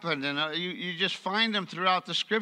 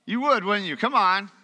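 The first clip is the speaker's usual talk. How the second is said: playful coaxing; 2 semitones higher, 5 dB louder than usual. Real, not acted.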